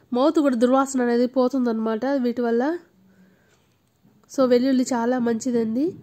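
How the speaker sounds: talking while brushing teeth; foamy mouth muffled speech; toothbrush in mouth. Real, not acted. Seen 1: Toothbrush with foamy paste in mouth, actively brushing throughout the words.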